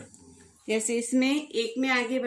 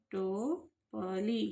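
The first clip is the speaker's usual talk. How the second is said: slow reading; 6 dB quieter, much slower than usual. Shown as a demonstration. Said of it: "ऐसे आपको पढ़ना है".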